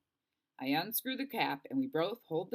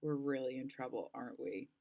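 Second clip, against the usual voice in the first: worried sigh; 3 semitones lower, 5 dB quieter than usual. Acted. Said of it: "Delphi sighs".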